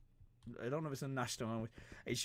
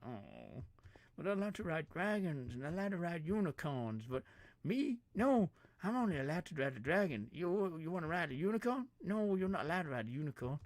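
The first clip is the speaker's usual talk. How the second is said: higher, louder sing-song taunt; mock gloating rider; 8 semitones higher, 5 dB louder than usual. Rider taunting a man barred from unicorns, mock smug. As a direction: rub it in like a smug kid.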